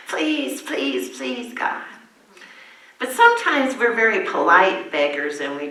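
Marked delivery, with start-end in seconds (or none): 0.1-1.8 high, pleading please repeated; mock begging. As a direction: beg God like a child, hamming it a little. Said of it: "begging God to do things for us".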